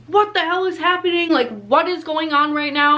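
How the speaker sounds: high-pitched, alarmed retelling of a shocked friend; startled disbelief. Retold or imitated. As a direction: imitate someone scared out of his wits. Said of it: "I had scared the living hell out".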